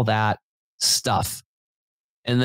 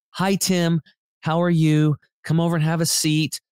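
high, sweet greeting of a nice lady; lightly voiced, higher-pitched friendly hostess; nicest lady; 4 semitones higher than usual. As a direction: imitate a sweet massage therapist welcoming a regular client. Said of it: "she was just the nicest lady".

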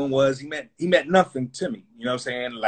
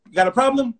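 confrontational; 7 semitones higher than usual. Retold or imitated. Confronting the label exec.

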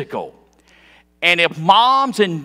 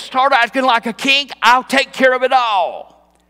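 bossy command; 4 semitones higher than usual. Acted. Voicing Jezebel bossing her husband.

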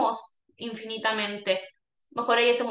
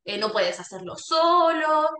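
slow, louder scolding "no lo hagas así"; negative scolding; 3 semitones higher, 3 dB louder, slower than usual. Shown as a demonstration. Caregiver scolding a patient, slow and firm. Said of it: "Evitar tanto esto de".

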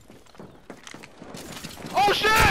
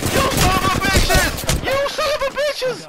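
raging gamer; 5 semitones higher than usual. Real, not acted.

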